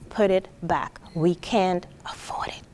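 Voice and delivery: a hushed, stern whisper. Retold or imitated. Mother to child once the aisle empties, stern whisper. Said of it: "she whispers very sternly".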